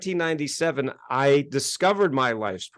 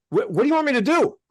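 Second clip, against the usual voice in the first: baffled seeker; 10 semitones higher, faster than usual. Retold or imitated. Confused seeker in mock dialogue.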